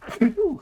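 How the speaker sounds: tiny high stifled sneeze. Real, not acted. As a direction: let out a squeaked sneeze. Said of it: "I felt it".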